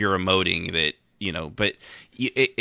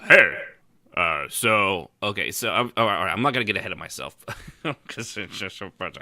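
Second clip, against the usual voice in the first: fast rambling, then a laugh; rambling giggly player. Retold or imitated. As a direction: gush fast and giggle mid-line. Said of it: "You can't just, like".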